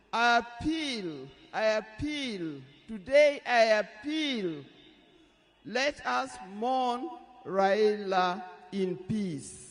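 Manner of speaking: slow, tearful plea; choked-up widow's appeal; tearful goodbye. Real, not acted. Widow's emotional funeral plea.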